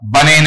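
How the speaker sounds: "बनेन" with an 'ei' vowel in the middle; American pronunciation. Shown as a demonstration. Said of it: "वो sound इस तरीके से आता है". ("बनेन" का अमेरिकी उच्चारण)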